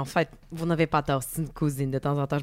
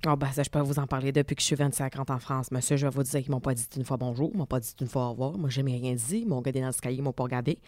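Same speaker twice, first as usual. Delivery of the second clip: gossipy neighbour; 4 semitones lower, faster than usual. Acted. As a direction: lower put-on voice of a grumbling neighbour lady. Plays neighbour Sabrina Guigui.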